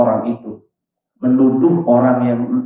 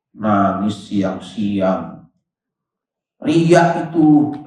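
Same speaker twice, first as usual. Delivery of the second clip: low, slow, mock-suspicious muttering; inner judging thought; 5 semitones lower, much slower than usual. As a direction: drag out the accusation under the breath. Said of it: "kata dia tuh". (suara hati yang menuduh, pelan dan rendah)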